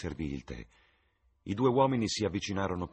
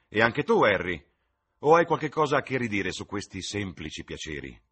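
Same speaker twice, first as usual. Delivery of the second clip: hearty; 3 semitones higher, 9 dB louder than usual. Acted. Host offering tea heartily.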